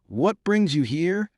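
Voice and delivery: high, slow anguished cry; a frightened outcry, pitched high and slow. A narrator's reading. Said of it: "cries I".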